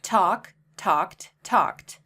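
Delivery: talked ends in a crisp t, one syllable; talked, no extra syllable; talked with a t ending. Shown as a demonstration. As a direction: model talked clearly. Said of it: "the E D endings all sound differently".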